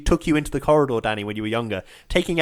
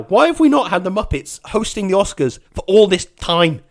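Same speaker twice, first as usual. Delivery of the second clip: louder, worked-up rant; getting angry; 3 semitones higher, 6 dB louder than usual. Real, not acted. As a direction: demand an answer, loud and indignant. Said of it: "I'm getting angry about this now".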